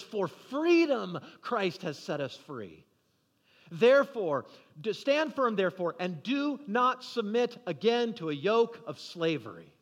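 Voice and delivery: emphatic scripture proclamation; battle cry. Retold or imitated. Paul rallying the Galatians, measured battle cry. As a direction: declare it firmly, leaning on the key words. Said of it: "This is Paul's battle cry".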